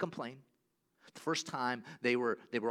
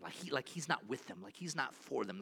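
doubting whisper; 5 dB quieter than usual. Retold or imitated.

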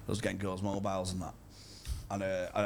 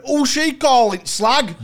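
imitated rough girl shouting, high and slow; hammed-up loud, high outrage; 14 dB louder, slower than usual. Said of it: "this girl rough as fuck".

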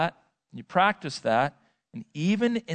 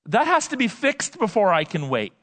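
higher-pitched acted protest; put-on insistence, pitched up; insistent objection; 5 semitones higher than usual. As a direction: object on behalf of an impatient believer. Voices the listener's objection to God.

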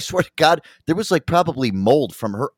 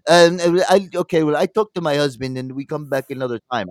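lightly imitated Russian accent; halting mock Russian accent; 2 semitones higher than usual. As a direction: quote a hesitant customer in a mild Russian accent. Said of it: "like, a Russian accent".

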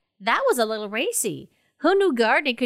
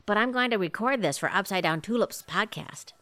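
hushed whisper so the poet won't hear; whispered confession to the listeners; 4 semitones lower, 6 dB quieter than usual. Acted. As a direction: secret aside under the breath. Whispering aside while poetry starts.

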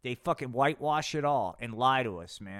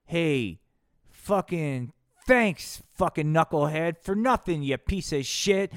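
tough guy; 7 dB louder, slower than usual. Acted. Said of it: "And then Kim Jong-un goes".

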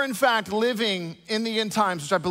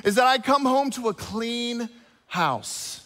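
higher, slow wife stressing her one condition; wife insists on a clean house, higher and slow; demanding wife; 4 semitones higher than usual. Retold or imitated. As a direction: lean hard on the one request. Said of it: "She goes".

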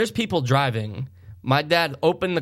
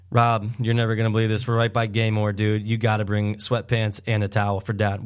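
lower-pitched, matter-of-fact retelling; deadpan phone call; 5 semitones lower than usual. Retold or imitated. Son phones brother for help, deadpan. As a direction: break the news in a level low voice.

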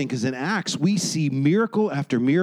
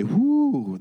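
drawn-out, higher-pitched whoo; uneasy whoo; 6 semitones higher than usual. Acted. Uncomfortable churchgoer reacting to the teaching, uneasy whoo. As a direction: let out a long, overwhelmed whoo.

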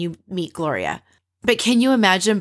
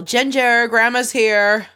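louder, higher mock call across the house; slow, raised calling-out voice; yell; 5 semitones higher, 4 dB louder, slower than usual. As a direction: call out to the dog that grandma has arrived. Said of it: "We see Brad yell".

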